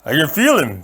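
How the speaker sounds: plain steady report; lightly voiced giant. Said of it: "Fezzik said".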